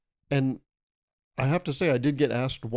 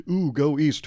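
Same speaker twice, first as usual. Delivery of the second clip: louder, drawn-out posh ooh; pompous direction giver; 5 dB louder, slower than usual. Retold or imitated. Comic impersonating a pompous stranger giving directions, mock posh. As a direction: mimic a pompous guide. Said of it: "I'm doing an impression".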